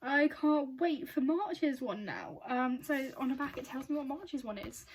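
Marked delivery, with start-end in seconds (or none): 0.0-2.4 slow, emphatic, stretched-out enthusiasm; excited. Real, not acted. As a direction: draw the words out with eager excitement. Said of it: "this is so exciting".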